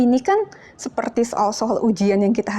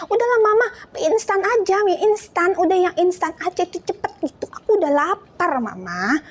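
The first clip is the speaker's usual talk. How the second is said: put-on much higher, pushy childish nagging; impatient nagging; 8 semitones higher than usual. Hungry child pushing mom to just make instant noodles, whiny. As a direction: pester mom to hurry up. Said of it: "Siapa yang nggak sabaran?".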